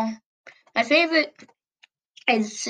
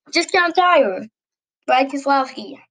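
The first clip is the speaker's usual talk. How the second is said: loud correction; 3 semitones higher, 3 dB louder than usual. Real, not acted. Loud correction after a slip.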